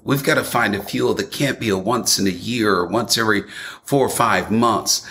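"We've got to find a fuel" said fast, with "got" stressed and a falling end; quick falling push. Shown as a demonstration. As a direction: rush through it and drop at the end.

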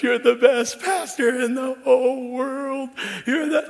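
imitating dad. Pastor imitating his proud father praising him, high and slow. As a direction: gush it like a doting dad. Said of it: "he always goes".

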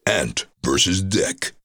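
slow show announcer; drawn-out TV voice-over billing. Shown as a demonstration. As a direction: announce the match-up slowly and grandly. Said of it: "I've been on the X Factor".

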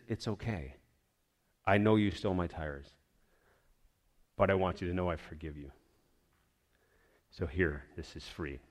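softly forgiving the man who stole from him; gentle forgiveness. Retold or imitated. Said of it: "He said".

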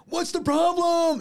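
put-on very high, slow, loud child's yell; mimicked kid yelling. Lifeguard mimicking a kid who was whistled at, high mock yell. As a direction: holler it like a defiant little kid. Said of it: "It's like yelling at me".

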